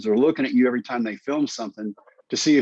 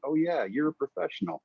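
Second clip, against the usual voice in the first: higher and softer, laughing through it; 5 semitones higher, 6 dB quieter than usual. Real, not acted. Telling the host about Quaid, laughing. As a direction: chuckle out the compliment.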